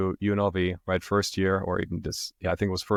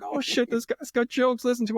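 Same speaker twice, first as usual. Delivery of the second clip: mock amused laughing. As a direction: hoot it to a friend in falsetto. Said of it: "the guy starts laughing his ass off".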